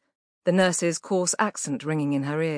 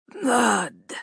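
loud rasping cry from a dying man; a sudden cutting shout; sharp cry; 5 semitones higher, 5 dB louder than usual. A narrator's reading. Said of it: "His voice cut the silence".

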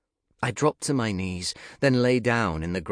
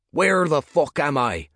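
angry shout; 8 semitones higher, 8 dB louder than usual. Acted. Nick, lost and furious.

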